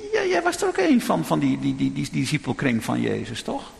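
put-on a servant girl calling Peter out; accusing maid. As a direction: point the finger at Peter.

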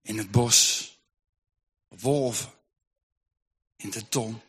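very soft and low, barely getting the words out; faint stammering. Acted. Old woman stammering to the mother, faint and broken. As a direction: gasp out the words, exhausted. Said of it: "het enige wat die vrouw kan stamelen is".

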